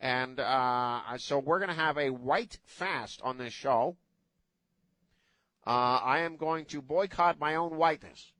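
lightly put-on voice of a guilt-ridden white guy; mock guilty white guy. Host mocking white guilt for his co-hosts, lightly put-on voice. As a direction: play the self-flagellating white guy, half joking. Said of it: "I'm gonna talk like this".

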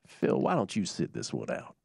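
put-on low, slightly slowed Southern gentleman accent; a hint of an old Southern gentleman accent; William Hootie Johnson. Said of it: "my imitation of the late, of the late".

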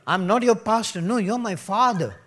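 laughing protest. Retold or imitated. Pastor laughing off a man calling him father. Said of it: "I said".

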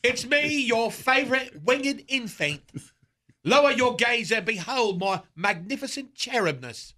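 grandiose cherub voice, lightly done; pompous vain hero. Acted. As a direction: lord it over the room as Cupid. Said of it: "our old friend Cupid".

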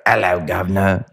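slow, lightly done cockney greeting; a hint of a Dick Van Dyke cockney; mock cockney. Teasing co-host about his accent, slow mock cockney. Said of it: "Peter sounds cockney".

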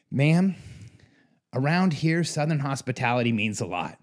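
badly faked Southern accent; a hint of an amateur Southern accent; Randy. Client addressing the factory visitor, badly faked Southern accent. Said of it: "I'm terrible at a Southern accent".

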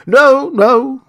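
high, loud, scandalised denial; shocked. A narrator's reading. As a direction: protest in shock at the very idea. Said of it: "Both the gentlemen were sincerely shocked".

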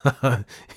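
short, loud, high laugh; brief crazed laugh; mad laugh. Acted. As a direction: laugh in manic triumph. Madman laughs in triumph.

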